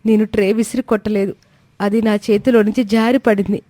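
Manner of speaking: high, begging to be heard; a frightened bride pleading her case; pleading young wife. Acted. Komali begging her husband to listen, high and pleading. Daughter-in-law begs husband.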